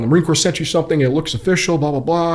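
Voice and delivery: mock freak-out, without real volume; retold frantic yelling. Wife phones husband at work about official mail, mildly mimicked freak-out. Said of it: "freaking out, yelling in the phone".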